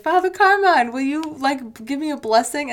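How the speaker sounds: mock pleading to a priest; lightly imitated boxer. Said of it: "and he's like".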